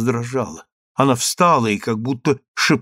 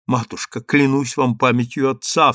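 crying out. Acted. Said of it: "вскричала дочь".

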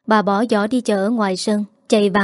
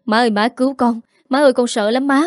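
crying for mother; 3 semitones higher, faster than usual. Acted. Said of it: "hắn khóc lóc kêu mẹ".

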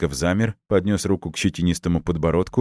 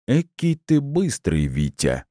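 slow, deliberate, higher mocking; slowly drawn out; 7 semitones higher, slower than usual. A narrator's reading. Colonel slowly taunting the impatient father. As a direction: stretch every word out to taunt him. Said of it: "медленно выговаривая слова".

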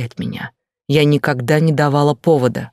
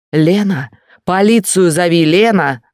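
louder, higher panicked call; yelling for help; 4 semitones higher, 4 dB louder than usual. Acted. Bloodied husband shouting at wife to call police, loud. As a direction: shout her name urgently. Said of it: "орёт Артём".

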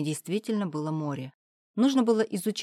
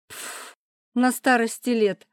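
slow, higher, louder scoffing echo; loud mocking; 6 semitones higher, 6 dB louder, slower than usual. Klavdia mockingly repeats the father's phrase, loud scoff. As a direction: scoff and throw his words back. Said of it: "громко прокомментировала Клавдия".

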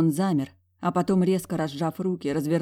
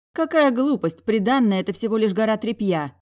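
higher, louder angry retort; angry growl; 5 semitones higher, 5 dB louder than usual. A narrator's reading. Heroine snapping at the general about the dowry, angry. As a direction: snap back at him in anger. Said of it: "рычала я".

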